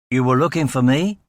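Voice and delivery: put-on light boyish Middle American accent with a Southern lilt; a hint of a Southern-tinged Middle American voice; American official greets detectives in a light Middle American accent. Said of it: "in a boyish Middle American accent with a slight Southern lilt".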